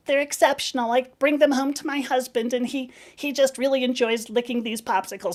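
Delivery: high put-on lady voice; imitating a woman. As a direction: gush about your husband innocently. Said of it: "I can nail this voice".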